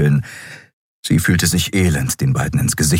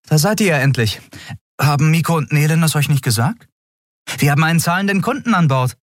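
put-on higher, fast, eager young captain; Endriel voice; 11 semitones higher, faster than usual. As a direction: push the crew along, a bit rushed. Endriel spricht, Figurenstimme. (höhere, eilige Stimme der jungen Kapitänin)

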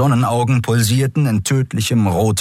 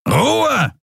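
roared command. A narrator's reading. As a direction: shut her up with one word. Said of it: "brüllte man sie an".

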